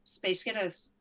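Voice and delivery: low, short Scottish-accent party trick. Shown as a demonstration. Performer showing the only accent they can do, Scottish accent. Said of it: "I can say a band's name in a Scottish accent".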